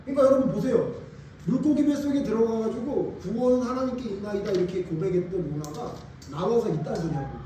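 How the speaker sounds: ordinary delivery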